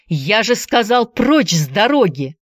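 Andy shouts again pushing the giant aside; shouting again. Acted. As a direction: repeat the command harder. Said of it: "снова закричал Энди".

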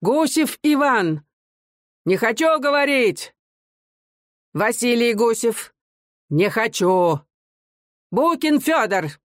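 заметно выше и медленно, старческий визг; тонко выкрикивай имена; тонкий крик. A narrator's reading. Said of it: "старик тонко кричал". (старик тонко выкрикивает фамилии)

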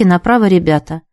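ordinary delivery

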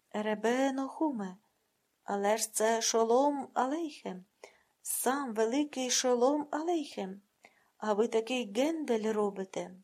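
slow, emphatic protest, leaning on each word; pleading protest. Acted. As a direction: stretch it out as if scandalised.

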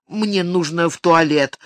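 ordinary delivery

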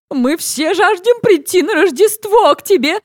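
high, thin shouting voice; a thin-voiced neighbour yelling up; Janice yelling. Janice yelling up to Becky on the roof. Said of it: "орёт Дженнис".

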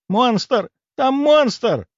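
high, alarmed cry; выкрик. A narrator's reading. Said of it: "выкрикнула она". (тревожный высокий крик)

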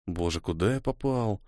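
soft, weary aside to oneself; inner thought. A narrator's reading. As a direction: think it aloud, quietly. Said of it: "подумал Ниэль, потирая виски".

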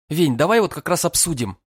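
irritably pushing the words out; annoyed, wanting him gone; irritated, through teeth. A narrator's reading. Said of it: "раздражённо цедит девчонка".

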